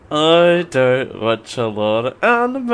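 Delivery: talking through clenched teeth; words pushed through gritted teeth. Real, not acted. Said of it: "I don't know why I'm talking through my teeth".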